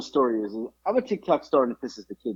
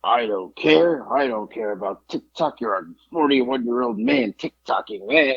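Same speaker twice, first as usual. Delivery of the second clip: mock dismissive. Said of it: "he tries to play it off as if".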